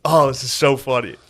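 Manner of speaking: amused, words breaking into laughter; laughing while talking. Real, not acted. Remembering a funny story for the co-host, laughing. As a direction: giggle through the words at a funny memory. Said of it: "It's making me laugh".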